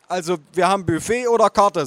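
high-pitched service voice; waitress. Acted. Waitress offering choices, service voice. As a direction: announce the options to the table.

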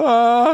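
high, loud drawn-out "aah" of fright; sudden retold yell of terror; imitated scream. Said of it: "och skrek ut".

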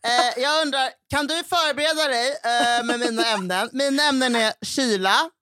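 put-on high voice; imitating co-host. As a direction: mimic a friend asking a favour. Imitates co-host asking a favour.

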